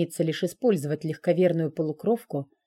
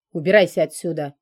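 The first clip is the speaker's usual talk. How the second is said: louder, curt order; sharp command; 6 dB louder, faster than usual. Acted. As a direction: bark the order at him. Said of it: "резко приказал ему дракон".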